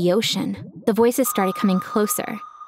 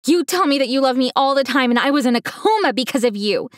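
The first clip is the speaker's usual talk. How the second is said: high, outraged, building to a cry; furious; 5 semitones higher than usual. Acted. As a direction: let the outrage climb. Daughter furious at father.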